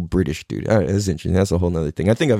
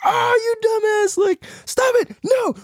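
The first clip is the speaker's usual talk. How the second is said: exasperated spirit guide. Retold or imitated. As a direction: scold like a fed-up guardian. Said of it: "my spirit guide, he's just like".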